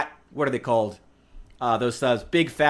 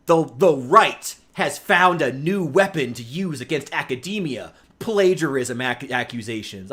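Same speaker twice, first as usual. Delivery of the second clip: mocking article quote. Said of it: "I saw one article that was like".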